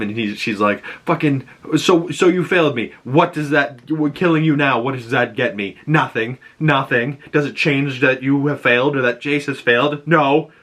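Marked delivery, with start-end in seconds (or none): 1.1-10.5 higher, mildly raised retold anger; mock yell. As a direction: scold the failed guard, half-acted. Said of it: "yells at him".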